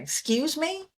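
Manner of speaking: high rising excuse me, imitating her; a light imitation of a confused stewardess; mock puzzled flight attendant. Mimicking the flight attendant who didn't understand her, high puzzled ask. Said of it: "she was like".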